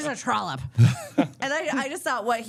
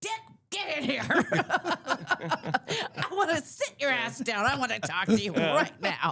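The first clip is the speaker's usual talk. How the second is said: mock angry, high-pitched, slow scolding voice; 7 semitones higher, 4 dB quieter than usual. Imitating the first lady calling her husband in to scold him. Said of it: "But Pat would have been like".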